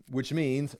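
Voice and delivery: ordinary talk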